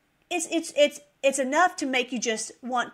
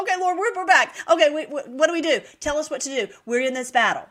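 high, loud, urgent reply; eager answering cry; 4 semitones higher, 5 dB louder than usual. Acted. Believers answering the Lord's roar, eager and urgent. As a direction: call out readily, pitched up and loud.

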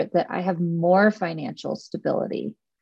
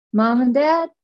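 imagined speech to parents; 3 semitones higher than usual. Pretend. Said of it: "you're gonna be able to say".

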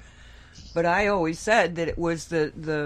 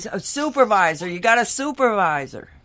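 loud; 3 semitones higher, 6 dB louder than usual. Retold or imitated. Demanding to see a supervisor.

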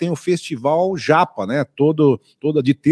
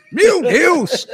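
surprised; 13 semitones higher than usual. Real, not acted. Mock shock over menu joke.

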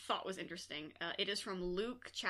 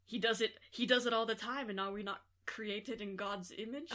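put-on Mads Mikkelsen Danish accent. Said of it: "I don't know what the fuck voice you're trying to do".

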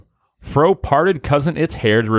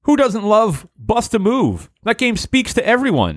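mock enthusiasm; 8 semitones higher than usual. Mocking Matt's picks.

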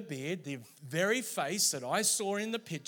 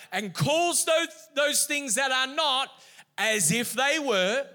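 higher, louder preacher build; preaching at full force; 6 semitones higher, 6 dB louder than usual. Acted. Preacher declaring scripture to the congregation, loud and rising. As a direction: build to a ringing climax.

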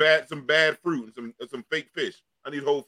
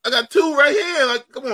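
exasperated whine; 8 semitones higher, 10 dB louder, slower than usual. Real, not acted. Complaining, voice strained high.

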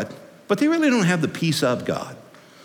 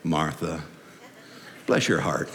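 very low, soft, sympathetic drop; low, hushed, indulgent pity; imagined Jesus inflection; 12 semitones lower, 9 dB quieter than usual. Acted. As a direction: drop deep and quiet, gently chiding. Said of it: "it might have gone like this".

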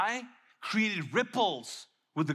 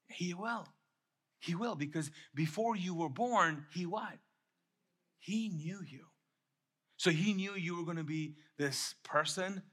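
hushed, softer pastoral assurance; tender reassurance; 5 dB quieter than usual. Real, not acted. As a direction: soften right down to reassure a doubter. Reassuring doubters God knew them.

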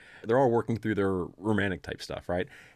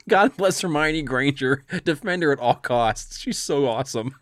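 gushing fan; 3 semitones higher, 6 dB louder than usual. Retold or imitated. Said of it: "I'm like".

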